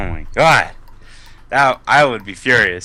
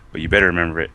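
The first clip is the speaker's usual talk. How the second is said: low, cool parting threat; cocky warning; 7 semitones lower, 3 dB quieter, much faster than usual. Shown as a demonstration. Winner's parting words to the beaten player, cocky low threat. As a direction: drop the pitch, then speed up menacingly.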